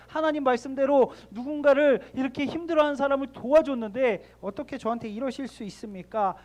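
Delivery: mock complaint to God. Voicing a resentful prayer to God.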